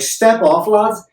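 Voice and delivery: a light imitation of a Liverpool accent, high and loud. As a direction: lightly do the Liverpudlian girlfriend's Scouse. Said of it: "Liverpudlians have a very specific accent".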